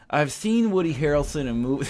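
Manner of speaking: high, failed actor impression; Woody Harrelson. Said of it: "It's like white Mike Tyson".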